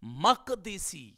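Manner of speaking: مقدسی said very slowly, each syllable apart; slow teaching model of مقدسی; careful pronunciation. Shown as a demonstration. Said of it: "اسی طرح".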